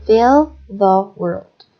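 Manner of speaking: one breath, lean on fill; single breath, stress on fill. Shown as a demonstration. Teacher demonstrating a verb phrase in one breath, stress on fill. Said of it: "I'll read the verb phrases on the box with a single breath".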